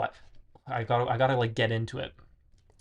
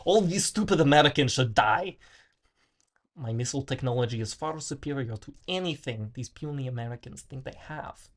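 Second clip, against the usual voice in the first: put-on Russian accent. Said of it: "I got the Russian hat".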